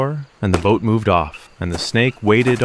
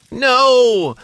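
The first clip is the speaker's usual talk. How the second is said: high, sharp no; impatient snake girl; 13 semitones higher, 4 dB louder than usual. Acted. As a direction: snap at the silly boy.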